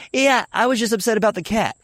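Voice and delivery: high-pitched tearful wail, imitated; mock crying. Upset child answering mom on the phone, mock crying. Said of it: "And I start crying".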